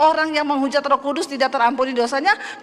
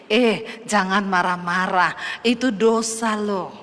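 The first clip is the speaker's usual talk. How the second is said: gentle inner voice; 5 semitones lower, slower than usual. Retold or imitated. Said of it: "ada suara di hati ngomong gini".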